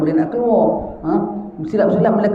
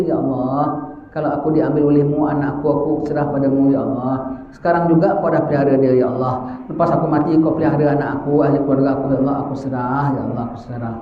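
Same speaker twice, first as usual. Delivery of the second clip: fading, tender supplication; earnest prayer; 3 semitones lower than usual. Acted. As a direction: pray it humbly, handing your children over. Acted prayer of a father.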